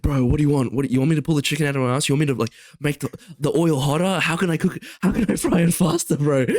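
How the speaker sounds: mildly heated rant, pitch climbing as it goes; exasperated retort. Retold or imitated. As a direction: act out a fed-up comeback to a customer. Friend's retort to impatient customer retold.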